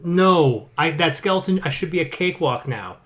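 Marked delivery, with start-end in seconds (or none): 0.0-0.7 louder, exasperated mock refusal; emphatic refusal. Player refusing the skeleton's level logic, indignant refusal. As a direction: put your foot down on one word.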